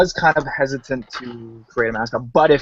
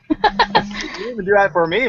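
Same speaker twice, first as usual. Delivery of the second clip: excited teasing; 10 semitones higher than usual. Acted. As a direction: tease with mock jealousy. Mock jealous teasing.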